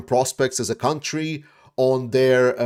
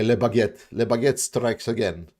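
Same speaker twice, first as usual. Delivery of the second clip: put-on a light, jokey French accent on Le Baguette; self-mocking French accent, barely put on; 3 semitones lower than usual. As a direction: toss off Le Baguette in a playful fake French accent. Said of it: "my French accent is horrible".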